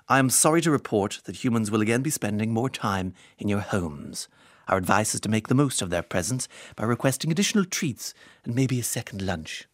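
lightly voiced cat, a hint of Hannibal Lecter. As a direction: read it as a sinister, silky cat. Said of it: "my cat voice turned into Hannibal Lecter".

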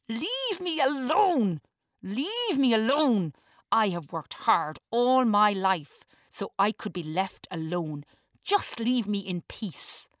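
slow, high, loud rant; desperate furious yell; ranting shout. A narrator's reading. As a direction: shout for peace in a tantrum. Walter's ranting outburst continues.

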